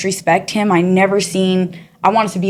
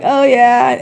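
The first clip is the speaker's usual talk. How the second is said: excited; 5 semitones higher, 4 dB louder than usual. Retold or imitated. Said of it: "I'm so excited".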